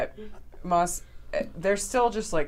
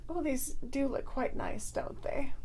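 vain character voice; 9 semitones higher, 7 dB quieter than usual. Acted. Moss admiring her horns.

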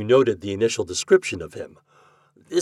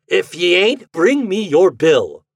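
loud, slow, higher insistence; firm insistence; 9 semitones higher, 10 dB louder than usual. A narrator's reading. Breed insisting to Jacobus on his bill, slow firm order. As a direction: lean on each word, he will pay.

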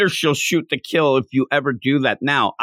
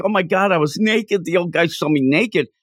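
retold panic; 5 semitones higher than usual. Girl realizing the old guy saw her naked, mock panic. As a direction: imitate a mortified girl's panic lightly. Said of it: "She starts screaming".

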